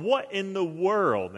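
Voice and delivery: slow, drawn-out bafflement; baffled onlooker. Pretend. Parade-goer spotting a suited man in a tree, baffled. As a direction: stretch it out in mock disbelief.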